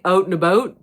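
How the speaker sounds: "out and about" with a light Canadian "oot and aboot" vowel; a quick hint of a Canadian "out and about"; Canadian accent. Shown as a demonstration. Actor demonstrating how Canadians say "out and about", lightly Canadian. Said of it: "Canadians say".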